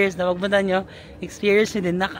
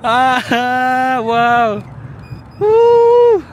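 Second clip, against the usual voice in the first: high, loud screams and whoops; thrilled screaming; 8 semitones higher, 9 dB louder, much slower than usual. Real, not acted. Rider above the city, loud thrilled screams. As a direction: scream with delight at the view.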